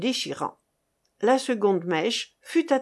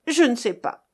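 firmer, more emphatic denial; accent of truth; 2 semitones higher, 4 dB louder than usual. A narrator's reading. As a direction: insist on it as the honest truth. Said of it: "avec un tel accent de vérité". (accent de vérité, plus appuyé)

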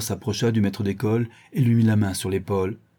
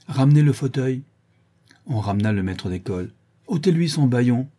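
higher, louder crisp order; commanding; 4 semitones higher, 3 dB louder than usual. Acted. Master ordering his men about, commanding. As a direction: give an order to the servants.

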